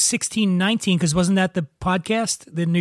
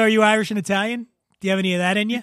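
fast, tossed-off punchline question; rushed joke line; much faster than usual. Shown as a demonstration. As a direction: rattle off the joke quickly. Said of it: "I was gonna go".

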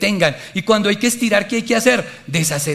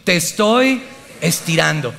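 slow, measured "Te estoy estirando"; repeat-after-me delivery. Shown as a demonstration. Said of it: "Repita conmigo".

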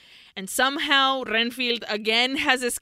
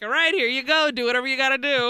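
breezy nurse quote; 3 semitones higher, 4 dB louder, much faster than usual. Retold or imitated. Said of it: "she's like".

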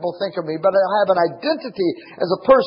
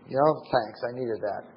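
mock grateful kid; 3 semitones lower, 4 dB quieter than usual. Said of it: "The kid's gonna say".

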